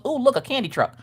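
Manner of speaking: put-on high, eager kid voice; a boy spotting a treat; lightly voiced delighted child; excited little boy. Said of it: "he goes".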